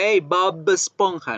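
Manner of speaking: Bob Esponja with an overdone buzzing b; mock exaggerated b. Shown as a demonstration. Teacher jokes about overdoing the b in Bob Esponja. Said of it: "no vamos a estar hablando todo el tiempo".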